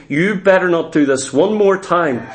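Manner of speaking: low, controlled warning; means business. Acted. Preacher mimics parent who means business, low stern warning. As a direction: warn firmly without raising the voice. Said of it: "There's a certain tone in that voice".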